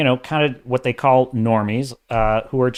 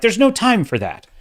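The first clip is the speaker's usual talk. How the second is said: lightly voiced evasive sidekick, higher; mock the stalling line; rookie dialogue; 9 semitones higher, 3 dB louder than usual. Mocking amateur dialogue, stalling character answering higher. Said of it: "saying things like".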